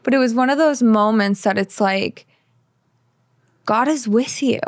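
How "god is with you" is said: a gentle whisper; whispered reassurance. Retold or imitated. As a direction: say it as an intimate hushed assurance. Felt reassurance in the moment.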